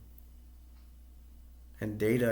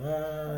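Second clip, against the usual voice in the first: mock falling cry; 5 semitones higher than usual. Narrator mimics Brandon going off the hill, mock falling cry. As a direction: imitate a light cry trailing away.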